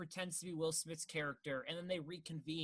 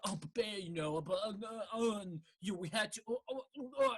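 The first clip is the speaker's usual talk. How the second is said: mock yelling babble; 3 semitones higher than usual. Podcaster mocks an actor's improv, babbling mock yell. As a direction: imitate rambling half-yelled nonsense. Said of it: "he just yells".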